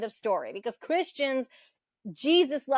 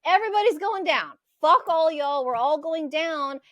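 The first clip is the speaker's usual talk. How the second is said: half-acted exasperated yell, higher and louder; mock fed-up outburst; 3 semitones higher, 4 dB louder than usual. Venting at friends on both sides, a mock angry yell. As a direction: blow up at everyone, mock fury.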